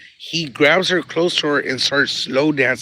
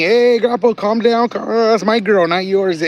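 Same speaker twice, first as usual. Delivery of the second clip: raised, teasing territorial call, fading at the end; mock protest; 7 semitones higher than usual. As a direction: playfully warn grandpa off your girl. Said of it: "And I'm thinking".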